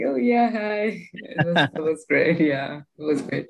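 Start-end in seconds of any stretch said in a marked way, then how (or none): 0.1-1.1 greeting Barack Obama, star-struck and awkward. Retold or imitated. Slow, higher awkward hello to a famous man. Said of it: "but then I was like".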